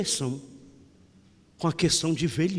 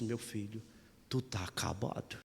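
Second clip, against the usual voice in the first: mother's blunt verdict; 6 semitones lower, 10 dB quieter than usual. Retold or imitated. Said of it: "minha mãe olhou pra mim e disse".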